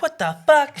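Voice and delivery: very high mock outrage; mom going off. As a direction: imitate mom blowing up in disbelief. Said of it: "going off and shit".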